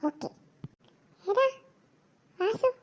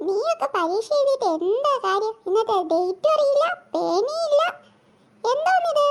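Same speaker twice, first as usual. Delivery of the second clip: scolding teacher, rising higher as she goes; exasperated teacher; 3 semitones higher than usual. Acted. Teacher scolding a student with no pen or date, rising higher in exasperation. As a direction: tell them off in disbelief.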